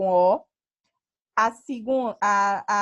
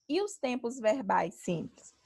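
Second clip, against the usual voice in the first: whispered student question; 6 dB quieter than usual. Pretend. Teacher voices an imagined student question.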